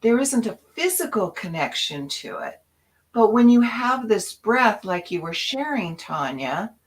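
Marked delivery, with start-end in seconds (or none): 0.0-2.6 "there" stressed, settling down; "there" hit firmly, calm finish; emphatic point. Shown as a demonstration. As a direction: land the key point on "there". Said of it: "and this is the key".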